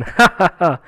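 ha-ha-ha laugh in even bursts; short chuckle. Acted. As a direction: laugh it out after the line. Laughs after reading the holy-beard line. (હા-હા-હા હાસ્ય)

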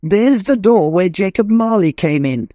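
overjoyed Scrooge. Acted. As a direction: bubble over with joy like a new man. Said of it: "He danced".

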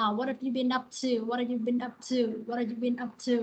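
"what have" linked, its t softened toward d; American soft t. Shown as a demonstration. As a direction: ease the t of "what" into a light d before "have". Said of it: "chữ tờ nó không được nhấn". (giọng Mỹ, không nhấn âm "t" trong "what have")

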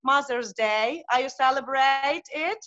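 non-native English with a Ukrainian accent; hesitant Ukrainian-accented English. Real, not acted. Uh, I'm from Ukraine.

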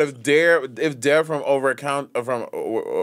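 stumbling over the words with false starts; tongue-tied. Real, not acted. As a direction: trip over the name and restart. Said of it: "Someone's afraid of speaking publicly here?".

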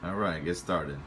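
ordinary talk, nothing marked

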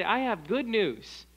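slow, lifted announcement of good news; joyful. Shown as a demonstration. Preacher shows church how to share good news joyfully. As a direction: say it full of excitement and joy. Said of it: "that excitement and that joy".

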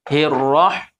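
Hirrah with a breathy throat h; correct ha. Shown as a demonstration. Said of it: "ini ha, roh".

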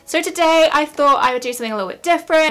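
loud, energetic announcement; almost shout it out to the viewers. Real, not acted. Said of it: "I don't know why I'm shouting".

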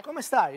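"Come stai" corrected, ending "Come" on an open e; "Come stai" in an Italian accent, not Spanish "Como"; Italian pronunciation demo. Shown as a demonstration. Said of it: "much better accent".

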